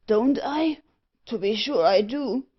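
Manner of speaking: loud spluttering cry; coughing and sneezing. A narrator's reading. Iron merchant answers the dwarf about smoke, coughing and sneezing. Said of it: "coughing and sneezing".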